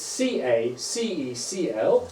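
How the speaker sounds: C A, C E slowly letter by letter; slow it right down for the class. Shown as a demonstration. Teacher repeating the syllables slowly for pupils. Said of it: "So I'll say it slowly again".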